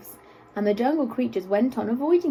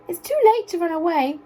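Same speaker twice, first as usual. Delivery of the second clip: anxious gazelle; 7 semitones higher, 4 dB louder than usual. A narrator's reading. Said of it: "asked the gazelle".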